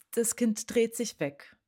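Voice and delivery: ordinary talk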